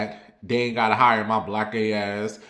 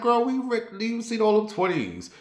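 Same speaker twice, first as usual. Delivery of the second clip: mock teen glee; 11 semitones higher than usual. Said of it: "I was like".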